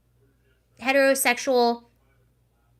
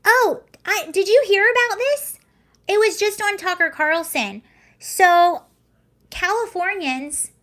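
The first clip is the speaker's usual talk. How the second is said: excited; 7 semitones higher, 4 dB louder than usual. Real, not acted. Excited new topic, high loud.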